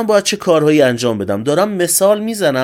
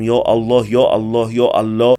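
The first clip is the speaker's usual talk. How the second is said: low monotone mock chanting; imitated rote invocation on a low note; mock praying; 7 semitones lower than usual. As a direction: drone it like an idle, repetitive prayer. Mocks sitting home just praying.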